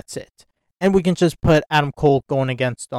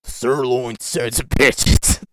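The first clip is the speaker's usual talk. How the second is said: savoring; 3 dB louder, slower than usual. Real, not acted. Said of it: "I can't stop laughing now".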